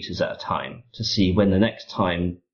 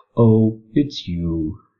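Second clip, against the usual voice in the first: put-on condescending, superior, talking-down voice; 3 semitones higher than usual. Describing a Portal 2 scene where GLaDOS recognizes you, mock-condescending GLaDOS voice. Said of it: "in that sort of condescending voice that GLaDOS has".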